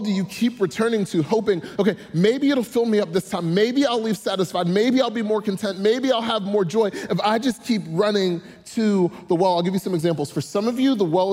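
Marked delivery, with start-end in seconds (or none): 1.8-9.5 hopeful yearning. Retold or imitated. Imagined hopeful inner voice.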